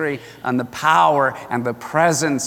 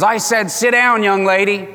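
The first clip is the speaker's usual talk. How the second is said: stern dad; 3 semitones higher than usual. Retold or imitated. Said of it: "He goes".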